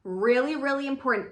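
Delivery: really punched loud; emphatic. Shown as a demonstration. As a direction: hit the first really hard. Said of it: "Emphasis on the".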